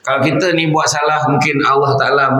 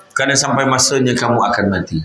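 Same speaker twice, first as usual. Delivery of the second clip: solemn recitation. Acted. Preacher voicing Jibril's solemn advice.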